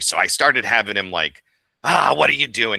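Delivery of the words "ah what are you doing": put-out, cranky, gruff, angry grumble, pitched up. Retelling an early try at a put-out, angry robot: gruff voice. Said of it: "he's a put out guy, angry".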